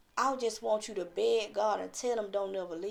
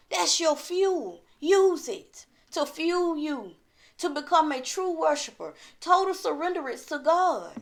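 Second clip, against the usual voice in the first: raised, emphatic sermon voice; fervent preaching; 5 semitones higher, 5 dB louder than usual. Real, not acted. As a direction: preach it with conviction, drawing out key words.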